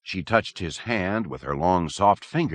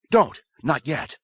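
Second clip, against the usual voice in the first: desperate cry; 8 semitones higher than usual. A narrator's reading. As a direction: shout to stop it. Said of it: "he heard himself crying out".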